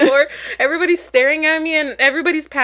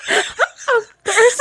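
slow, laughing drawl; 4 semitones higher, much slower than usual. Real, not acted. Telling a friend her fainting line, slow and laughing. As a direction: stretch it out, giggling.

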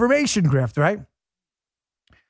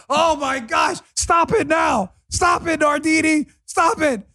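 mock plea; 8 semitones higher, slower than usual. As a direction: beg her to stop, hammed up. Mock pleading with Nardini.

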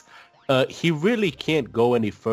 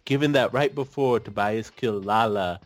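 normal talking voice

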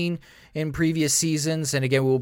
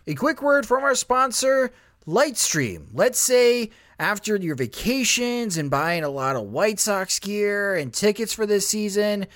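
ad read. Acted. Host reads sponsor ad.

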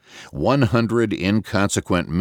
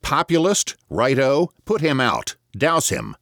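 much higher jeering calls from the mattresses; mock shouting; 9 semitones higher than usual. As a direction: call out mockingly, half-teasing.

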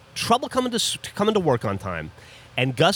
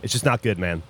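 lightly imitated low, gravelly guy; a hint of a bearded mountain man, pitched down; mock gravelly big-guy voice; 5 semitones lower than usual. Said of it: "gravelly voice".

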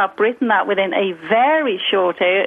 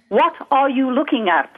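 put-on a stronger Liverpool accent, a little higher, stress on What; 3 semitones higher than usual. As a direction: lean harder into Liverpool. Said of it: "they'll say stuff like".

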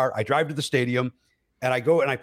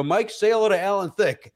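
higher, eager nudge to a pal; prompting a friend; 6 semitones higher than usual. Retold or imitated. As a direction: urge your friend on, pitched up. Urges friend in retold story.

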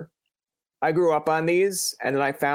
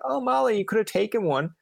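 high, sing-song fake kindness; sugar-coat it like a forgiving uncle; mock sweet; 7 semitones higher than usual. Uncle telling niece she could have taken one, mock sweet and high.

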